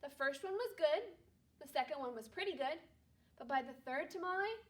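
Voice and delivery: calm read-aloud storytelling voice; story narration. Acted. Teacher reading a Christmas story aloud to her class, calm narration. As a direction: read it gently to a second-grade class.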